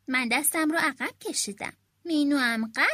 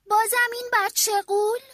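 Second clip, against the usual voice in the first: loud, higher exasperated call from the window; mother shouting; 7 semitones higher, 6 dB louder than usual. A narrator's reading. Mother calling from the window at her daughter, exasperated shout. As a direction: yell out in exasperation like a fed-up mom. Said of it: "مادر از پشت پنجره فریاد زد".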